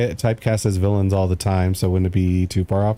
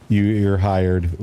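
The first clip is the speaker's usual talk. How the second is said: mock boss; slower than usual. Mock hiring after his voice.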